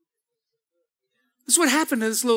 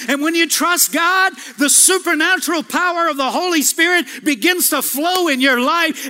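rising sermon shout; 4 semitones higher than usual. Real, not acted. Preacher climax about the Spirit.

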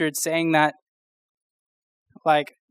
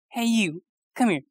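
high janitor voice; 5 semitones higher than usual. Retold or imitated. Janitor calling a student over, high voice. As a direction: lift into a high, friendly janitor's call. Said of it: "he had such a high voice".

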